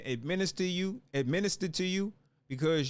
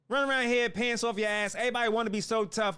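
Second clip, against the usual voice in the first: ordinary delivery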